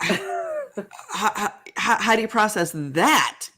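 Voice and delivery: high, laughing how how how; real amused bewilderment; laughing disbelief. Real, not acted. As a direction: stumble over the words through a laugh. Laughing at a strange memory.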